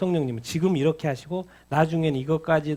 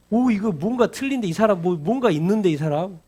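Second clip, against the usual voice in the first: surprised wonder; 3 semitones higher, 4 dB louder than usual. Acted. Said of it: "disciples voiced wondering aloud".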